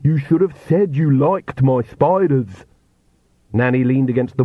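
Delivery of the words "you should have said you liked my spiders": high, drawn-out gleeful call; excited shout. A narrator's reading. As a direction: Igor calling out excitedly as he strikes. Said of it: "he shouted excitedly as he struck".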